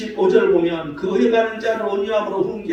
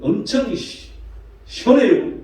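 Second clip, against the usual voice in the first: lightly mocked slow Chungcheong speech; Chungcheong dialect; slower than usual. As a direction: drag it out Chungcheong style. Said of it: "충청도 말은". (가볍게 흉내 낸 느린 충청도 말투)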